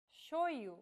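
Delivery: shoyu with the y sounding as an I vowel, sho-i-u; word demo. Shown as a demonstration. Teacher models shoyu for learners, careful pronunciation. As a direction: say shoyu, y read like I. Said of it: "The letter Y is read like the vowel I".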